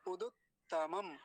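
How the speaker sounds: उदुत्तमम with both u vowels kept short; short quick u. Shown as a demonstration. Teacher shows students the short u in उदुत्तमम, vowels kept brief. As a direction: say उदुत्तमम, quick short u's, then तमम. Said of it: "जल्दी जल्दी बोला जाएगा".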